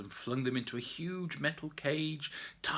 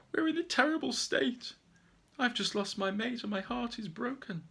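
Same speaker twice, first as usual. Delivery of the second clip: higher, louder sorrowful bear voice; a heartbroken bear pleading its case; grieving bear; 5 semitones higher, 6 dB louder than usual. Acted. Bear tells its sad tale.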